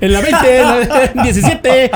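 high, helpless laughing delivery; carcajada al contar. Real, not acted. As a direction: try to get the words out through laughter. Laughing at rookie's muddled radio codes. (hablando muerto de risa, en tono agudo)

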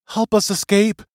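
small captive pleading from a box; shrill voice. A narrator's reading. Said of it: "heard the voice again".

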